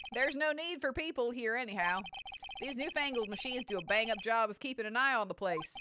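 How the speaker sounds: folksy, grumbling cowboy voice; cowboy security officer. Acted. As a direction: grumble about modern gadgets like a cowboy.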